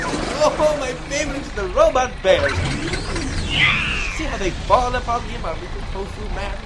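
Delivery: high, loud gleeful cheer; delighted villain. Acted. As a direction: savor the gruesome finale. Favorite part, robot bears attack.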